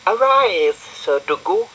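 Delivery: high regal command; loud high royal pronouncement; the Queen. Acted. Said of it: "said the Queen".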